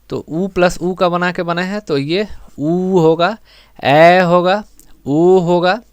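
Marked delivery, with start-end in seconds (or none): 2.6-5.8 ऊ, ए, ऊ each stretched before होगा; drawn-out ऊ, ए, ऊ as examples of long sounds; long vowel demo. Shown as a demonstration. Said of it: "ये सब दीर्घ उच्चारण के".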